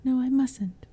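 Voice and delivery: put-on a girl performing for unseen listeners; theatrical. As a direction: overact the temptation for the goblins. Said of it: "addressed them theatrically".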